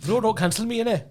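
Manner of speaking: high, put-on Bradford Asian plea; mock-protest in Bradford Asian; Bradford Asian accent. Co-host joining the cancellation joke, Bradford Asian accent. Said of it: "do Bradford Asian on the phone".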